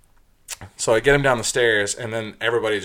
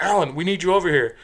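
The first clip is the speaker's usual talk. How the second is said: raised-pitch call for help; 7 semitones higher than usual. Retold or imitated. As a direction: imitate a bartender summoning backup. Bartender calling for the bouncer.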